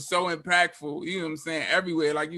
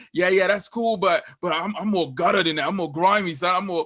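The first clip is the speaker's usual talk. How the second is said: put-on heavy English accent. Quoting a man who sent him a track, in a heavy English accent. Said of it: "he's got this real heavy English accent".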